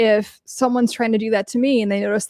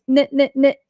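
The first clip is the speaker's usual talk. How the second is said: higher, off-voice mocking chant; taunting comedian; 5 semitones higher than usual. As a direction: sneer it like a jealous comic. Imitating Andy Dick's taunt.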